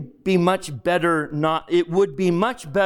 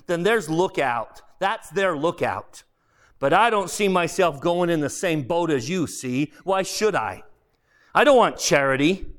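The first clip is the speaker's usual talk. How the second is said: aggrieved ghost; 5 semitones higher than usual. Acted. Ghost refuses charity.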